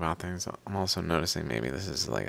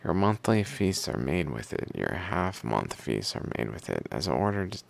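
steady recital with firm phrase openings; reading aloud; 2 semitones higher than usual. Acted. Reader reciting hymns to the Pharaoh and their commentary, reading aloud. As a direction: read it like verses from an old book.

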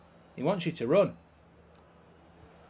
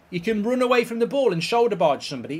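usual speaking voice

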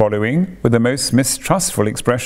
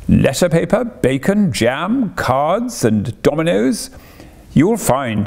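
Toad rattling off delights, higher and eager; excited boastful Toad; 6 semitones higher than usual. Acted. Toad showing off his caravan to Rat and Mole, eager and boastful. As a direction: sell the open road with swagger.

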